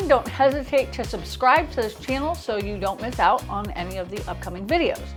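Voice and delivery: lisping on the s sounds. Real, not acted. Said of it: "sorry about the lisp".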